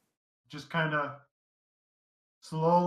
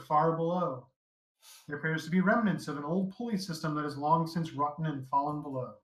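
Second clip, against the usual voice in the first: measured descriptive read-out; game master's scene setting. Acted. Game master describes the rickety bridge to players, scene-setting narration.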